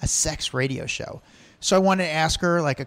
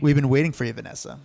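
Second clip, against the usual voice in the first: creepy stalker voice; faster than usual. Retold or imitated. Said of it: "I was so creepy".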